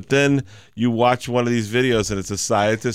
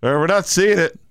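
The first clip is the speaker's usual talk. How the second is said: radio voice; 9 semitones higher, 3 dB louder than usual. Retold or imitated. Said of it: "He's like".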